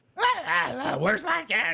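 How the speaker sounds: very high, drawn-out, swooping goblin yell. Voicing a goblin mother in the story: goblin mother yelling.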